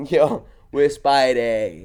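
put-on slow, drawn-out Baltimore accent. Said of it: "talking like that".

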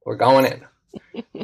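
very slow, deliberate; slow and firm. Retold or imitated. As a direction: spell it out slowly.

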